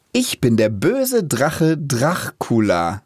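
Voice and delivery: slow, measured storyteller; narrator voice. Shown as a demonstration. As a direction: read it like a narrator. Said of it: "einfach normal aufgenommen".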